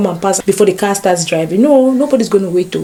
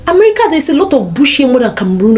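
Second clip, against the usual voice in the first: amazed exclamation; 5 semitones higher, faster than usual. Retold or imitated. Retold amazed remark on arrival.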